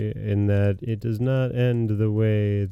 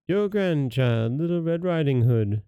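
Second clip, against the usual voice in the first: put-on counterfeit girl voice; 5 semitones higher than usual. Wolf fooling grandmother at the door, counterfeit girl voice. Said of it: "counterfeiting her voice".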